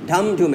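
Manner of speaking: ধাম ধুম, up on ধাম and down on ধুম; drumbeat stress pattern. Shown as a demonstration. Teacher showing upstroke and downstroke, ধাম ধুম like a drum. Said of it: "ধাম করে ওঠে".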